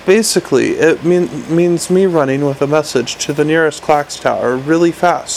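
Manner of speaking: eager little imp, hoping for a yes; lightly voiced hopeful gadget. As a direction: pitch it brightly, hoping. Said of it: "said the imp hopefully".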